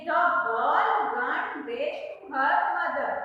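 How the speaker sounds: very slow, word by word; slow reading aloud. Shown as a demonstration. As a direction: spell out the sentence for the class. Reads the exercise sentence aloud.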